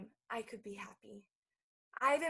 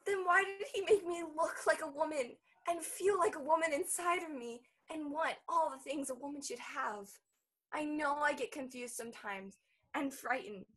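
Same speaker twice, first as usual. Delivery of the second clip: anguished protest; 3 semitones higher, 6 dB louder than usual. Acted. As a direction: demand an answer through hurt. Bella protests being called child.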